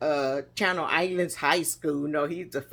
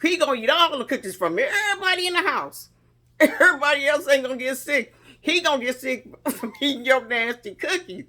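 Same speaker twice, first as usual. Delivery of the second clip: mom voiced laughing; 5 semitones higher than usual. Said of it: "She said".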